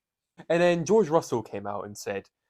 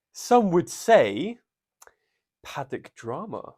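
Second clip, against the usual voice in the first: dramatic whisper; 5 semitones higher, 6 dB louder, much slower than usual. Pretend. Dramatic build-up to topic.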